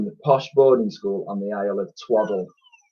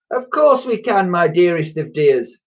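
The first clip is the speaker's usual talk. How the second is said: high, gushing saleswoman; overdone sugary high voice; nice voice; 8 semitones higher, 4 dB louder than usual. A narrator's reading. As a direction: gush with put-on sweetness at the child. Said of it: "in her nice voice".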